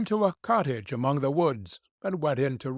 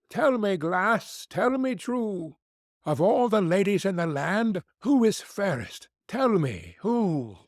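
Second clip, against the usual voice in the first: vain queen; 6 semitones higher than usual. Acted. Queen asking her mirror who is fairest, high and imperious.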